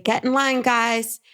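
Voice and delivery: calling out. Retold or imitated. Date calls unhoused people to line up.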